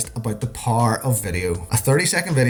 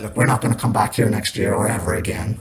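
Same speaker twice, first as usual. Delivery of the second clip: complaining guest; 3 semitones lower than usual. Retold or imitated. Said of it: "They were making noise about".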